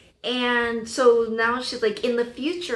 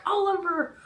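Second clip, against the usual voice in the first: imagined upset partner, pitched up; Felicity; 8 semitones higher than usual. Acted. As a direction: whine it as an exasperated accusation. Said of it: "Felicity's gonna be like".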